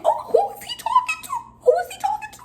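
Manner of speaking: squeaky high voice cracking with laughter; laughing disbelief. Retold or imitated. Watching the customer cuss out the girls, high laughing disbelief. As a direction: laugh it out in mock shock.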